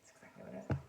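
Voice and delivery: mock deep voice; deep repeat. Shown as a demonstration. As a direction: growl it low the second time. Repeat dropped very low.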